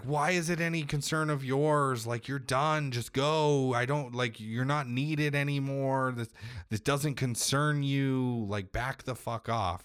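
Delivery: imitated angry outburst, high-pitched; indignant protest. Son telling Kratos to stay out of it, mock indignant.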